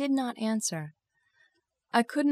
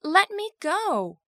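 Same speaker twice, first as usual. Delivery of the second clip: high, drawn-out plea; urgent, raised-pitch protest; crying out; 8 semitones higher, slower than usual. Acted. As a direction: cry out to be released. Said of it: "I cried".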